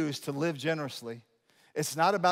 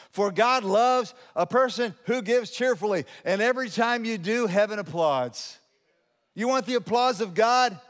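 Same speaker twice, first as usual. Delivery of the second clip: raised, higher preacher voice; impassioned preaching; 6 semitones higher, 5 dB louder than usual. Real, not acted. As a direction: preach it out with rising conviction. Preaches the verse.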